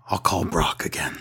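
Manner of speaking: sigh, then a low, soft, defeated line; mock resignation. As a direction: imitate a boss giving in wearily. Acts Vince's resigned reply.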